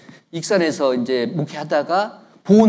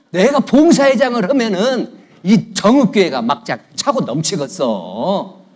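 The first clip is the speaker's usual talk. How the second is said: mock boasting; 6 semitones higher, 6 dB louder than usual. Preacher voices would-be service chairman, mock boastful. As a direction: imitate a member talking themselves up.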